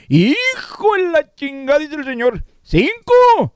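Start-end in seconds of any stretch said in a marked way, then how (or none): 0.1-1.8 slow, half-crying curse; mock anguished curse. Shocked father in joke. 2.6-3.5 higher, louder astonished "¿Cinco?"; surprised question. Acted. Doctor's shocked question in joke.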